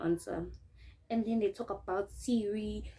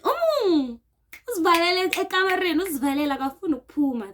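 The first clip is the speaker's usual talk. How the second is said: raised, fast, high accusing voice; mock accusing shout; 8 semitones higher, 7 dB louder, faster than usual. Housemates accusing her of hiding, raised fast and high. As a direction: blurt it out like an angry housemate. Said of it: "They saying it in Pedi".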